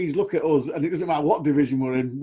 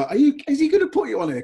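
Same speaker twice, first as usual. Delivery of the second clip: retold pitchside question; 11 semitones higher, 5 dB louder, faster than usual. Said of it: "I used to talk to him and go".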